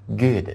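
"Good" with a very short oo vowel. Shown as a demonstration. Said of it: "一定是很短的音".

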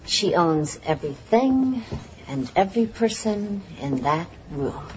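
slow, owning delivery of she owns everything; confident demo. Shown as a demonstration. Actress showing the new actor how to play Jessica's confidence. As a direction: lean on everything as if it is hers. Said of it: "You try".

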